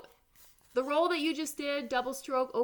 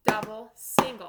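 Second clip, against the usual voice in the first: loud counted drum call; loud called sticking; 8 dB louder than usual. Shown as a demonstration. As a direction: call each stroke out loud, like a drum teacher. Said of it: "Let's do it slowly first".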